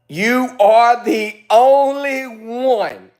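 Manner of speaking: slow, high sarcastic drawl. Real, not acted. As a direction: drag it out mockingly. Drawn-out sarcastic agreement.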